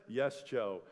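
low, weary mock reply; a hint of a fed-up congregation; bored congregation. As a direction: sigh it like a tired listener. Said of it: "It's like".

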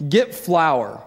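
ordinary delivery

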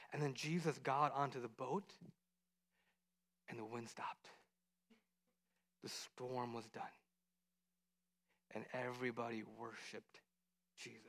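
soft, low narration, fading; quiet, reverent winding down; hushed story ending. A narrator's reading. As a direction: bring the storm to stillness. Story settles as storm stops.

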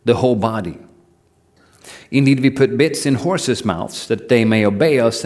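measured, deliberate Bible reading; scripture reading. Acted. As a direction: read the verses aloud with care. Reads James chapter three aloud.

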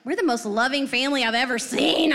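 mock indignant parent; incredulous protest. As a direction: protest in disbelief. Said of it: "And I'm just like".

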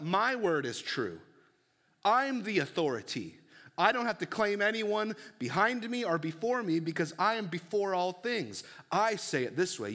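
preacher voicing a sovereign claim; Jesus. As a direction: declare it with absolute authority. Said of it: "Jesus is speaking with heavenly authority".

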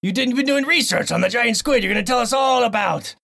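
blustery pirate host; a jolly pirate pushing his guest. Acted. Host pressing co-host in a pirate voice. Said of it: "this stupid voice".

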